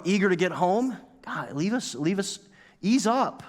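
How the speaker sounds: retold flare-up, protesting to be given a break; set-off outburst. Offended customer telling the server to back off, indignant. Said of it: "something really set me off".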